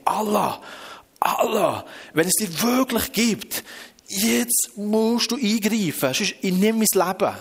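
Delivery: slow, high pleading cry; desperate plea. Retold or imitated. Suicidal refugee calling to Allah, desperate plea. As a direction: call out to God at the end of your rope, drawn out. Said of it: "Er ist wirklich so verzweifelt".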